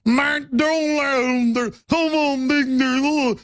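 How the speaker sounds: put-on high slow East Texas hillbilly accent; a white East Texan in a slow, high-pitched twang; East Texas drawl. Mocking how East Texas folks talk, in an East Texas accent. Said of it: "white people, that talk like this".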